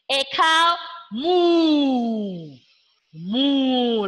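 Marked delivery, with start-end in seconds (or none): 1.1-4.1 cow moo. Shown as a demonstration. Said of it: "like a cow".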